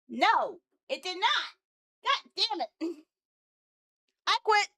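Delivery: high, loud frustration; fed-up yelp; exasperated outburst. Real, not acted. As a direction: cry out in defeat at a failed test. Outburst as update fails again.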